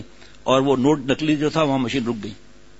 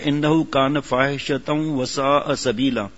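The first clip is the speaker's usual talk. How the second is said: Quran recitation; much slower than usual. Real, not acted. Recites Quran verse in sermon.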